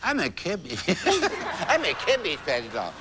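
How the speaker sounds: laughing while playing a Cabbage Patch doll; laughing through it. Host acts out the doll clue, laughing. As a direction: giggle out the doll line.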